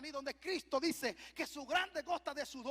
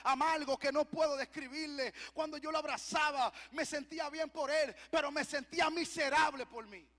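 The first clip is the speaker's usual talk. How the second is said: raised, forceful preacher voice; impassioned preaching; 3 semitones higher, 6 dB louder than usual. Acted. Preacher confessing his feelings to the church, impassioned preaching. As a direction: press it out with fervor.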